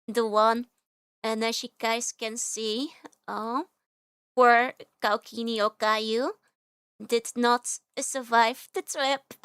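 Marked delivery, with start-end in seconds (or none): 3.3-9.3 slow, mock-sad lament for a broken toy; louder, dragged-out fake grief; playful lament, slow and loud; mock mourning. Real, not acted.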